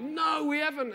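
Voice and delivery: disciples' answer acted with a strong stressed "No"; emphatic denial. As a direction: land hard on "No" as a flat refusal. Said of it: "Sue put some emphasis in that".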